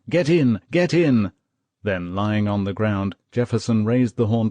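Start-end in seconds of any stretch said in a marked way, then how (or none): 0.1-1.3 high, loud order; shouting. A narrator's reading. Wounded lieutenant ordering a private on, loud shout. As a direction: bark the order to get in. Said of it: "Jefferson shouted at him".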